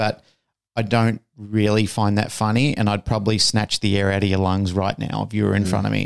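usual speaking voice

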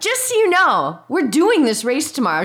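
loud, high, swooping yell. Retelling calling after a friend walking away in a supermarket: retelling own yell. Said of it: "yelling at her in the supermarket".

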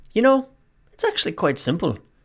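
put-on Irish accent. Retelling what a man answered when asked his relationship secret, Irish accent. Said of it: "I'm trying my best Irish accent".

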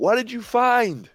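high, shrill, loud projected yell. Game narrator voicing Ellie calling to Aranon as she walks over, yelling across a distance. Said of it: "She kind of yells at him".

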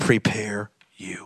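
low, soft, hushed unvoiced whisper.

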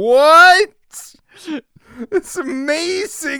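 loud shouted outburst, first word "what" drawn out. Recalling watching ninjas break through glass, retelling yelling out. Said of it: "I immediately just yelled out".

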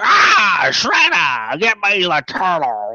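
high, swooping, very slow, drawn-out sing-song alien voice. Showing how the cartoon villain talked to Shredder, in a Krang voice. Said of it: "like he literally talked like that".

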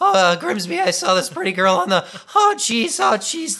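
put-on very high, squeaky, loud little teenager voice. Showing how the character would sound as a squeaky-voiced teenager: squeaky little voice. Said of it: "it doesn't sound like a squeaky little".

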